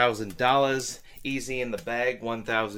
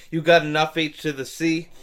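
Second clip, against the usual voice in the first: loud, higher, fast hype; hyped shouting; 4 semitones higher, 4 dB louder than usual. Acted. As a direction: pump yourself up and yell. Hyping himself out of retirement.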